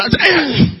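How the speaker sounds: irritated guttural noise, cutting someone off; grumpy grunt. Acted. Grumpy man waiting for a taxi brushes someone off, irritated grunt.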